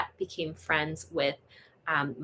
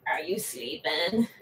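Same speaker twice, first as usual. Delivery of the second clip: slow whisper to a sleepy kitten; whispering to a sleeping kitten; 2 semitones lower, 5 dB quieter, slower than usual. Real, not acted. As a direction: breathe it so he stays asleep. Cooing to kitten on camera.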